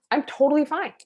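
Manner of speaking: high, bright-pitched reassurance; acted upbeat declaration; breezily fine. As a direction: pitch it up, all cheerful insistence. Acting out being fine some Christmases.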